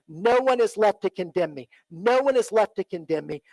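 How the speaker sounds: quiet affirmation. Acted. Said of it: "I hope that she said".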